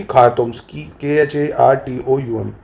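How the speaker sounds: slow letter-by-letter spelling; dictating the spelling of खारतूम to students. Shown as a demonstration. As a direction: spell each letter out slowly. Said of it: "teacher spells the capital name".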